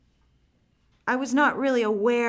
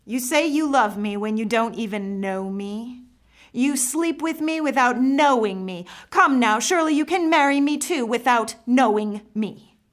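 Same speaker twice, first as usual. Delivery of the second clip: bitter mock invitation, rising and louder; sarcastic; 2 semitones higher, 4 dB louder than usual. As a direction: twist the knife with sarcasm. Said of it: "his sarcastic tone of voice".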